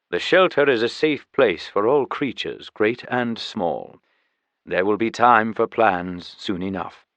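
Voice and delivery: measured, formal tiger voice; dignified host tiger, lightly characterized; lightly voiced tiger guardian.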